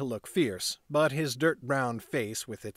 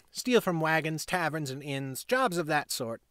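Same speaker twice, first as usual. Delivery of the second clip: put-on proud boy. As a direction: brag like the little gang leader. Boy explaining gang work.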